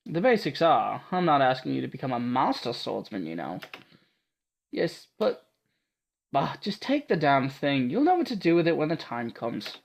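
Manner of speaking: lightly Scottish gruff swordswoman; a hint of Scottish brusqueness; a bit Scottish. Martha pushing the blade on Ada, lightly Scottish. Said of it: "Making her sound a bit Scottish".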